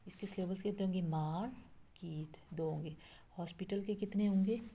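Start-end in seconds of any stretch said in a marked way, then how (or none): 1.0-2.4 मार्केट drawn out in two separate beats; broken into syllables. Shown as a demonstration. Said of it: "break करके आप बोल रहे हैं".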